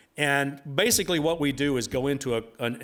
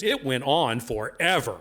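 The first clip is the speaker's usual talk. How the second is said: laughing punchline; slower than usual. Retold or imitated. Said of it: "she goes".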